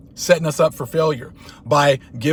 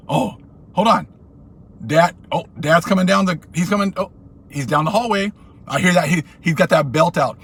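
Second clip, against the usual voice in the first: mock panic; 3 semitones higher than usual. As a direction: sell the fake terror of the belt. Hearing dad with the belt.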